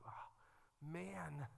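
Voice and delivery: breathless, hushed whisper; awed whisper. Real, not acted. Pastor moved by the rooster verse, hushed whisper. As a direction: let the awe hush it to nothing.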